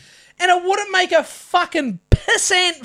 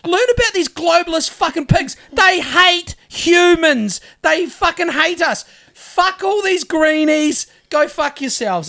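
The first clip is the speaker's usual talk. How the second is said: bottled up rage. Real, not acted. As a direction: let the rage out at the greenies. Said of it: "I got some bottled up rage".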